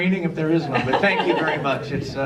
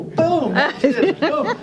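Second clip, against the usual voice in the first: excited sound effect; 11 semitones higher, 4 dB louder, much slower than usual. Retold or imitated. Acting out the rake hitting.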